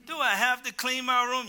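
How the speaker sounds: put-on high, loud kid's whine; whining child. Preacher imitating a child begging out of chores, whining. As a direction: plead like a child told to clean up. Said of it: "Some children".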